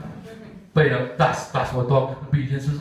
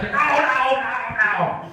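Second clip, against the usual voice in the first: a touch higher, mock pleading; panicked dog; 10 semitones higher, much slower than usual. Dog being splashed at the tap, mock panicked no. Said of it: "The dog's like".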